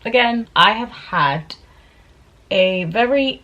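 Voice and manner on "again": slow, much higher sheepish hello; mock the awkward return to the channel, drawn out and high; rising louder on each again; awkward comeback greeting. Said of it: "I'm just like".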